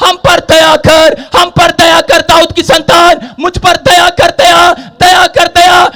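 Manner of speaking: slow, drawn-out preacher's shout for mercy; crying out loudly. Retold or imitated. Blind men calling to Jesus for mercy, crying out loudly. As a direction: imitate a beggar calling out, stretching each phrase. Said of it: "वो जोर जोर से चिल्ला रहे थे".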